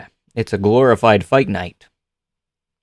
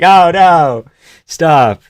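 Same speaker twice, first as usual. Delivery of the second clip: mock pleading; 5 semitones higher, 4 dB louder, much slower than usual. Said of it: "That's a reenactment".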